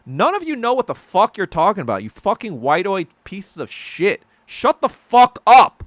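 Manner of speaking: yelling, loud and high; furious shout. Retold or imitated. Asian viewers yelling at Western pundits, furious and loud. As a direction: tear into them at full volume. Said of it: "we're like".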